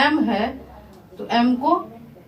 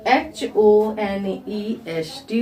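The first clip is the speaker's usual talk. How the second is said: slow spelling; 3 semitones lower, much slower than usual. Shown as a demonstration. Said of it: "इसको क्या पढ़ेंगे".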